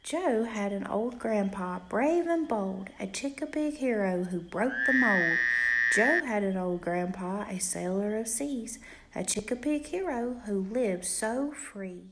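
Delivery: gentle sing-song bedtime reading; reading to a child. A narrator's reading. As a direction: read it like a rhyming bedtime book. Reads a rhyming picture book aloud.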